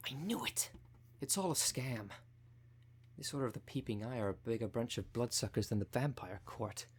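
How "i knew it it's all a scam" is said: higher-pitched burst of vindication; indignant vindication. Acted. Sibling reacting to recorded proof of the scam, indignant vindication. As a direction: exclaim it, pitch jumping up then settling.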